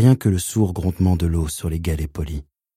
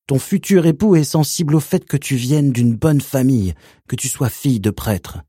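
lightly higher honeyed tone; sugary uncle; 6 semitones higher than usual. Acted. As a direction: coax gently as if to a child. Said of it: "d'une voix doucereuse".

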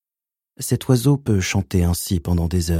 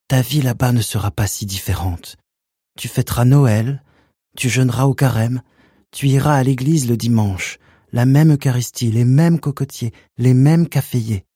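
higher nervous pleading mother; 4 semitones higher than usual. Acted. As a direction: plead and reassure at once. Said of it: "Sa voix était implorante".

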